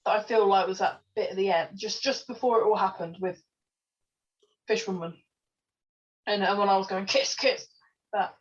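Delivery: talking around a retainer; slightly thick speech, retainer in mouth; wearing a retainer. Real, not acted. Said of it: "I've got my retainer in".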